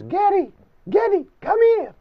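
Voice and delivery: high calling Yiddish grandma voice; Yiddish grandma accent. Retold or imitated. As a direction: call him like a Yiddish bubbe. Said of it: "has a Yiddish accent".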